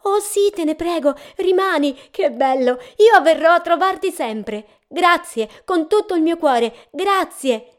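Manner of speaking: high, loud eager angel voice; a joyful angel begging him to keep singing; excited angel. A narrator's reading. The angel thanks the traveller. (l'angelo, alto e gioioso, supplica di continuare a cantare)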